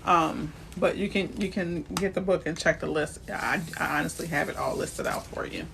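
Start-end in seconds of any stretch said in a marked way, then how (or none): 1.4-5.7 choking. Real, not acted. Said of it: "Sorry, I was choking on that".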